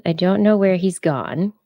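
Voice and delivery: normal talking voice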